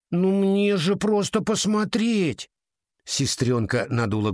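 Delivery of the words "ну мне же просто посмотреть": put-on high, slow pleading child voice; pleading little girl. A narrator's reading.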